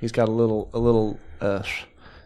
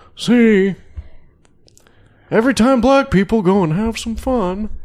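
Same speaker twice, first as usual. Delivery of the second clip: loud, very high stand-up comedy delivery; 12 semitones higher, 7 dB louder than usual. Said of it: "but you do it in Jerry Seinfeld's voice".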